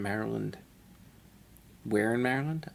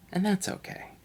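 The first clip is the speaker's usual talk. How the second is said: squeaky catchphrase; 11 semitones higher than usual. Acted.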